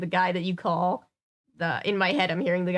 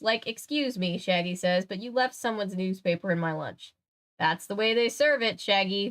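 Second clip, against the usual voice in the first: animated storybook reading, lightly voiced characters; story narration. A narrator's reading. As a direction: read it out for an audience. Reads story aloud.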